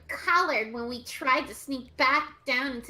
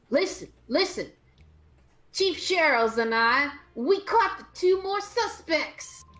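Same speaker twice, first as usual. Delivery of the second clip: put-on Boy Scout voice; 4 semitones higher than usual. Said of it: "I'll give him a Boy Scout voice".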